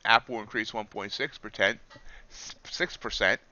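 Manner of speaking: reading the news like an anchor; steady news-anchor read; newscaster voice. Acted. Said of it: "that kinda sounded like a newscaster".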